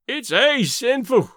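Davy grieving his wasted wood; moaning. A narrator's reading. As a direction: groan it out. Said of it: "Davy moaned".

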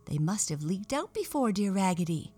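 eager doll cry. Acted. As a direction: echo her brightly, voice lifting. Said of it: "cried all the other dolls".

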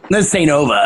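low-key imitated tough-guy threat; lightly voiced old-timey New York cartoon character; Charles Bronson. Cartoon kid threatening after refused cookie, low Charles Bronson voice. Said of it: "variation of the Charles Bronson voice".

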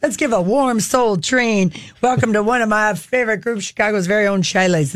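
lightly voiced smooth TV host intro; a hint of a showman announcing the next act; Don Cornelius. Retelling the show's opening, a light host voice. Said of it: "And Jo- Don Cornelius".

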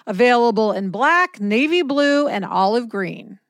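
bright commercial voice; ad read. Acted. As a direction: pitch the product eagerly. Sponsor ad read.

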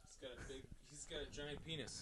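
whispering. Real, not acted. Aside about friend's size.

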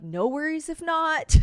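high, slow singsong apology; overly polite. Retold or imitated. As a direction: act out a breezy, don't-mind-me request. Texting a friend apologetically.

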